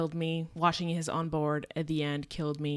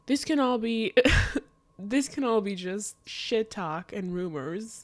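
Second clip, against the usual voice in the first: laugh through tears; 5 semitones higher, 4 dB louder than usual. Real, not acted.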